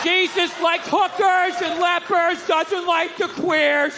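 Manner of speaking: brainwashed recital. Retold or imitated. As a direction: recite it like a programmed sleeper agent. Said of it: "he stands up like the Manchurian Candidate".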